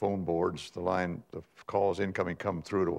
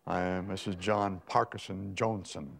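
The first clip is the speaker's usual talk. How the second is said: a hint of affected Boston society accent, slow; lightly mocked upper-crust Boston accent, drawn out; phony Boston Park Avenue accent. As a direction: mimic a Park Avenue lady grandly giving her name. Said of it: "one of those hyphenated names".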